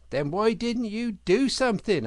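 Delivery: exasperated demand. Acted. Otter scolding the rabbit for not helping, indignant.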